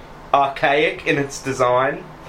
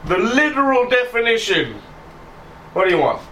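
indignant Dougie; 9 semitones higher than usual. Acted. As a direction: drag out the complaint, indignant. Dougie grumbles at the player.

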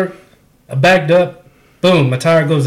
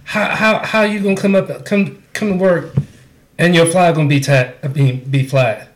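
pitched-up mock of the coworker; a lightly voiced mocking impression; imitating a coworker. Mocking how the coworker talks, pitched up. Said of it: "How does she say it?".

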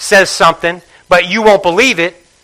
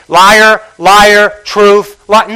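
louder, jabbing each word; mock accusation; 5 dB louder, much slower than usual. Preacher mimicking a finger-pointer, loud mock accusation.

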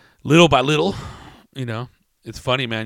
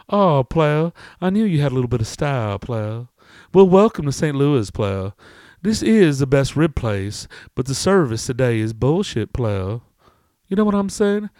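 welcoming customer; 3 semitones higher, 5 dB louder than usual. Acted. Customer welcoming newcomer to Saint Louis, grand emphatic lilt. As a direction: hold court with big lilting emphasis. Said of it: "and he's all".

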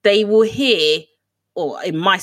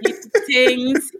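slow, playful put-on voice; silly voice; 6 semitones higher than usual. To her co-host, playful slow goofy voice. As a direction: hand it over in a goofy drawl.

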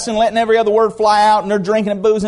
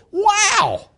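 laughing wow; 13 semitones higher than usual. Real, not acted. Gleeful about Bible talk.

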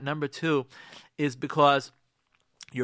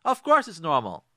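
loud sarcastic "of course", then a dropped dismissal; sarcasm; 5 dB louder than usual. Shown as a demonstration. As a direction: scoff that it's perfectly normal.

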